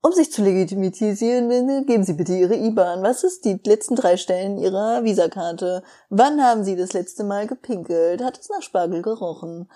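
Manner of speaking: lightly done computer voice; a hint of a phone menu robot; flat robotic monotone. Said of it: "mit den sympathischsten Computerstimmen der Welt".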